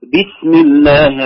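"بسم" opened with a clear, audible "bi"; slow, sound the ب of "بسم" fully with its kasra. Shown as a demonstration. Teacher correcting a learner's light letters, clear "bi" in "بسم". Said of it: "أظهر الباء مكسورة واضحة جلية".

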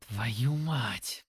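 low, hushed curse; whisper. A narrator's reading. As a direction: whisper it under your breath. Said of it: "прошептал я". (шёпот)

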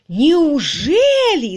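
high, loud, very drawn-out "Неужели"; stunned by the news of the honeymoon; изумлённый крик; astonished cry. A narrator's reading. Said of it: "закричала миссис Рудл".

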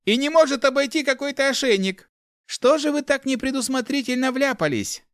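high-pitched mock-dramatic reproach; theatrical. A narrator's reading. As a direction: keep declaiming with exaggerated dismay. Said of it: "театрально заявил он". (театрально, с наигранным укором)

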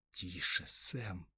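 soft, quiet hush; hushed warning. Acted. Frodo hushing Sam in hiding, soft. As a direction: hush him gently. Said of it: "прошептал Фродо".

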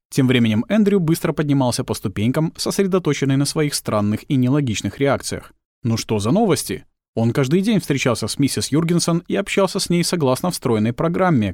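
ordinary delivery, nothing marked

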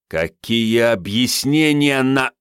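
angry boss. A narrator's reading. Calm chief Sanych swears at Andrey, angry and loud. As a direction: lose your temper mid-swear.

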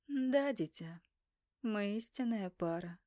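gentle sorrowful goddess; sad goddess. Acted. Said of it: "Богиня грустно улыбнулась".

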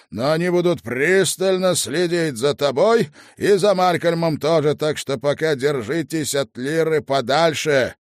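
loud, firm lord over headset; commanding lord. Acted. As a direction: give stern orders, loud and clear. Lord Asriel speaking through headphones.

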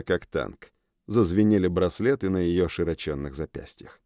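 ordinary delivery, nothing marked

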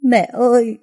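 high, loud sobbing call to mother; a loud, broken cry of mẹ ơi; choked crying cry. A narrator's reading. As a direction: cry out for mom through tears, voice breaking. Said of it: "vừa nghẹn ngào vừa khóc vừa nói".

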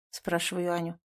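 ordinary delivery

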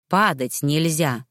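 husband gently setting a firm rule; stern. Acted. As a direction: lay down the rule slowly and low. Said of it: "строго сказал он".

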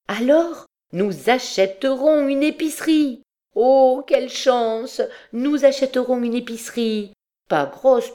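high, delighted exclamation; elated woman who has just found the answer; joyful cry. A narrator's reading. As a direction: burst out overjoyed, pitch way up. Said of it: "Elle poussa un cri de joie".

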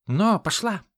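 high, loud giddy-up; urging shout. A narrator's reading. Ron driving the nag to flee, loud urging. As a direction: crack it at the horse.

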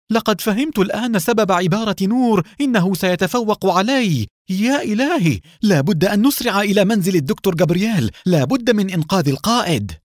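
high, loud cry of horror; frantic cry to rush and save the leader; panicked shout. Acted. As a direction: shout in sudden terror. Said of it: "وصاح بهلع".

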